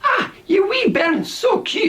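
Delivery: hammed-up Scottish accent; bad Scottish accent. Shown as a demonstration. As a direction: squeal at a baby in Scottish. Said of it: "one of the worst Scottish accents".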